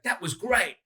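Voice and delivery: high, sing-song fake praise. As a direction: chirp it while your head says no. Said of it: "but their voice is like".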